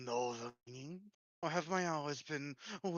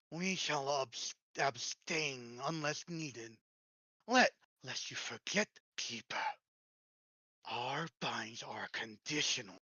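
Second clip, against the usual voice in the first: breathy voice. Acted. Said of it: "doing such a breathy voice".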